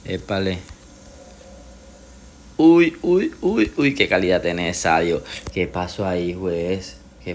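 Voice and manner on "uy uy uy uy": excited. Real, not acted. Excited reaction to a play.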